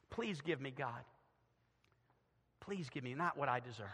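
low, soft begging; hushed plea. Acted. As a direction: drop to a humble, quiet prayer. David's plea, suddenly hushed.

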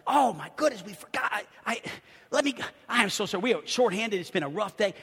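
flustered, stammering apology; frazzled apology. Retold or imitated. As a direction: imitate a harried employee tripping over excuses. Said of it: "he was just frazzled".

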